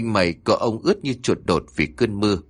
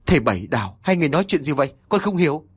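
bewildered outburst; 5 semitones higher, faster than usual. Acted. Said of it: "không chịu đựng nổi nữa".

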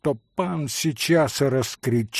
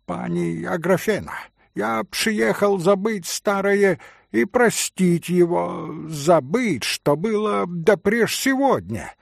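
put-on higher, pompous Polish-accented Russian; pompous broken Russian; 5 semitones higher than usual. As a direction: puff up and mangle the Russian. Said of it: "ломая русскую речь, быстро и напыщенно произнёс". (напыщенная ломаная русская речь пана)

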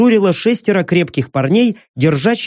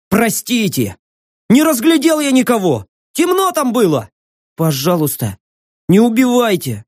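frightened pleading; 6 semitones higher than usual. Acted. Terrified young man begs.

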